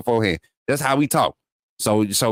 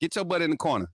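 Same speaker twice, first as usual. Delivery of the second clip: soft scolding; 3 semitones higher, 6 dB quieter than usual. Real, not acted. Scolding chatter into timeout.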